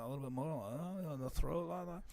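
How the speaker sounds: low, soft Liverpool accent in the throat; murky Liverpool accent, feeling for the sound. Shown as a demonstration. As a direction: try a 1960s-band-style Liverpool accent.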